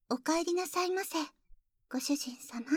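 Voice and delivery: sweet welcome fading into a whisper; sugary maid cafe greeting. Acted. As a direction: greet your master sweetly, ending hushed. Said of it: "改めまして". (甘いメイドカフェの挨拶)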